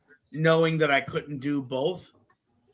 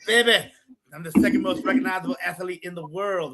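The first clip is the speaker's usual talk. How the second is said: a promo-style Dusty Rhodes voice; Dusty Rhodes impression; 3 semitones higher than usual. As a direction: ham up Dusty's boastful promo. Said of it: "he would tell me".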